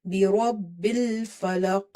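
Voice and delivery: rabbil with a heavy ra, slow. Shown as a demonstration. Teacher repeating the heavy ra in rabbil for the student. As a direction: slowly give rabbil a heavy ra. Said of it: "Make it heavy".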